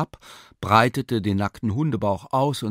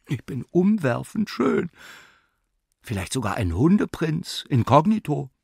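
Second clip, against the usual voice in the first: lightly raised, vain dog's inner voice; dog Lumpi musing; 6 semitones higher than usual. A narrator's reading. Lumpi admires himself in the mirror, vain and pleased. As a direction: preen like a dog who thinks he's a prince. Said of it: "dachte Lumpi".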